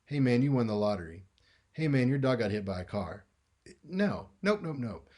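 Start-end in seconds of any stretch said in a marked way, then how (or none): 0.1-1.2 you won the lottery delivered in a flat, neutral tone with no lift; deadpan, same tone as bad news; flat middle tone. Shown as a demonstration. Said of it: "You're not gonna be in the middle". 1.7-3.2 your dog got hit by a car said in a neutral tone, as casual as good news; deadpan, same tone as good news; flat middle tone. Shown as a demonstration. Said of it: "You're not gonna be in the middle".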